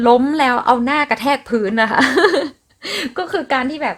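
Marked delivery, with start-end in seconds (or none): 0.1-3.2 amused laugh. Real, not acted. Amused by explaining falling face-first.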